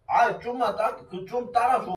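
acting tipsy, slurring a little; fake drunk. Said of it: "취한 연기를 계속 한 거야".

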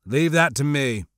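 cold. Acted. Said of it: "Xizor said coldly".

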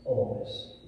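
whispered echo; soft whispered emphasis. Acted. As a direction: let the word fall to a whisper. Hushed echo after the point.

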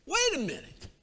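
a touch of hammed-up outrage; scornful Naaman. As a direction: scoff like a proud general refusing. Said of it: "And what is it that he says?".

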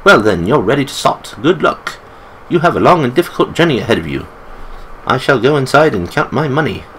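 put-on lightly done British accent for the old storekeeper; a hint of a British accent, friendly old shopkeeper selling supplies. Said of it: "I make him British".

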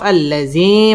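"আল্লাজি" with the final ee held three beats; "আল্লাজি" ending on a sustained ee; three-alif madd. Shown as a demonstration. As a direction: stretch the last vowel of "আল্লাজি" long. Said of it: "তিন আলিফ টান দিয়ে পড়তে হবে".

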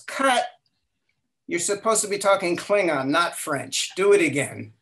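director yelling cut. Retold or imitated. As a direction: retell the director shouting cut and correcting the actor. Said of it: "And Leonard Nimoy yells".

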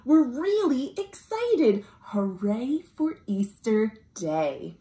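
put-on bright, sing-song read-aloud for kids; cheerful storybook chant; storytime read-aloud. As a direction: read it like a children's picture book. Reading picture book aloud to children.

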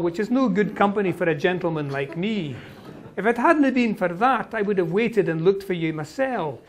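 lightly voiced Highland Scots lilt; Highland Scots Alan. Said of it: "you can hear the Gaelic intonations".

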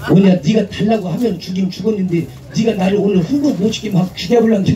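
mock-tough Jeolla woman, chest puffed out; Jeolla bravado. Jeolla woman sets her terms in a swaggering Jeolla dialect. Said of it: "전라도 여자들은 일단은 어깨에 힘이 들어갑니다".

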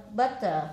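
"Butter" ending in an "ờ" sound; ending as schwa. Shown as a demonstration. Teacher models "Butter" for the class, "er" as "ờ". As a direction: say "Butter" with "er" read as "ờ". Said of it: "đọc là ờ".

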